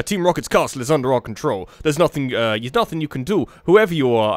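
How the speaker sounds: put-on light American accent on a villain; understated American-accented henchman. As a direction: play the grunt with a mild American accent. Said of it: "just an American accent".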